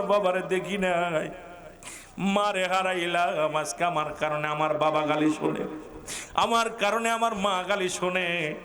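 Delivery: crying lament. Acted. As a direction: lament to God, sinking low. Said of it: "নবীজি কান্দার বলে". (নিচু গলায় করুণ ফরিয়াদ)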